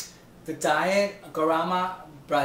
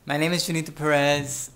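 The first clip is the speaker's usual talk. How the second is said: loud restart; 5 dB louder than usual. Shown as a demonstration. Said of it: "restarted introduction".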